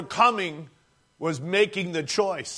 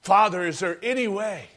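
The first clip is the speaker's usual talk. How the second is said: desperate plea; 3 semitones higher than usual. Acted. Preacher voicing Jesus begging the Father, rising to anguish. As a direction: beg the Father not to make you. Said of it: "Jesus' prayer quoted".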